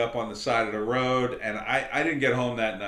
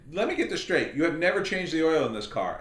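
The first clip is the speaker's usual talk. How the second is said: disbelief; 5 semitones higher than usual. Retold or imitated. Disbelief she never changed oil.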